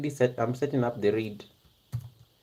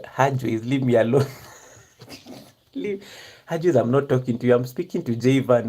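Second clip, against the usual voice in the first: louder, playful telling-off; mock exasperation; 4 dB louder than usual. Real, not acted. Streamer fending off a nosy viewer who asks about her whispering, mock exasperated. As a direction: scold a nosy friend, half amused.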